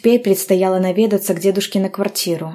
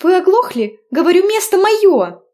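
much higher, louder indignant yell; angry shout; 13 semitones higher, 6 dB louder than usual. A narrator's reading. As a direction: shout him out of your seat. Heroine yelling at passenger.

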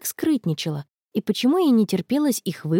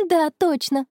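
forced out; 6 semitones higher than usual. A narrator's reading. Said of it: "выдавила она".

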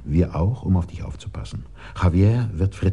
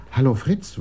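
soft and nice; 6 semitones higher than usual. Shown as a demonstration. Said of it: "weich und nett, irgendwie höflich".

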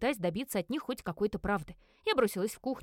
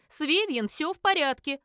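loud, higher, angry and scared; ringing with anger and fear; 6 semitones higher, 7 dB louder than usual. Acted. Lidia defends Vivien to the investigator, angry. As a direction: defend your friend fiercely. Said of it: "голос звенел от гнева и страха".

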